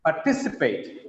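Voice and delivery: "Participate" with a weighted TI; par-TI-cipate, carefully modelled; stress on second syllable. Shown as a demonstration. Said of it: "the second syllable stress".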